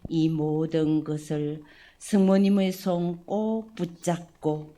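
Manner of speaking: slow, solemn prayer to God the Father. Acted. Priest leading the parish family in opening prayer, solemn and devout. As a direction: pray it humbly, each phrase laid down with care.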